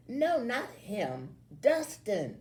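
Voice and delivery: slow, high, impatient correction; exasperated. A narrator's reading. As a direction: correct him with an eye roll. The girl rolls her eyes.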